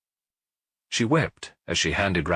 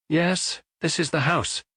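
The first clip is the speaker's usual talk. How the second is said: raised, prim spinster voice; landlady voice; 8 semitones higher, slower than usual. A narrator's reading. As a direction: voice a brisk landlady. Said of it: "Mademoiselle Otard's voice was heard saying".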